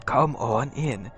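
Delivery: slow, sinister welcome; creepy host. Acted. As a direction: draw them in slowly like a creepy host. Drek welcoming the party.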